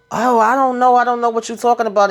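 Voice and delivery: high, quick innocent denial; playing dumb. Woman dodging Tariq's question, feigned innocence. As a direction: act like you know nothing, rattle it off fast.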